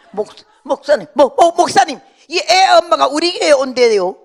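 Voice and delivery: high, loud, tripping over the words; excited stammering call. Retold or imitated. Church woman excitedly calling the pastor about the guest, loud and stammering. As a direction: blurt it out to the pastor in a rush.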